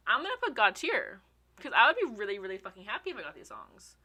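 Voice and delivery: breathless and worked up; out of breath. Real, not acted. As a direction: say it short of air. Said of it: "I'm getting so out of breath".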